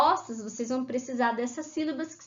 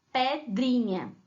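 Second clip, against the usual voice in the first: tag syllable by syllable; slower than usual. Shown as a demonstration. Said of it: "quais sílabas você vai precisar".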